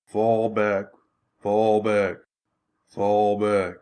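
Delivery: low, flat, unhurried orders under fire; calm monotone. Retold or imitated. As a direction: bark retreat orders with zero urgency. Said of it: "in the calmest, most monotone voice ever".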